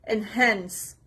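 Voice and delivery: "enhance" stressed on HANCE, from the H; stress on second syllable. Shown as a demonstration. Teacher modelling a new word, second syllable stressed. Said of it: "The stress is on the second part".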